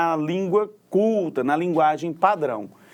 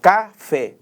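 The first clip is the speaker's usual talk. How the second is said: "Café" louder, in two clear beats; stronger last syllable; 3 semitones higher, 5 dB louder than usual. Shown as a demonstration. Teacher proving it is oxytone, firm final stress on "Café". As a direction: separate "Ca" and a firm "fé". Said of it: "a sílaba que é pronunciada mais forte".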